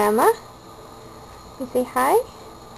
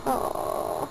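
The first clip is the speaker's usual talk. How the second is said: whispered; 8 dB quieter than usual. Real, not acted. Soothing the crying baby.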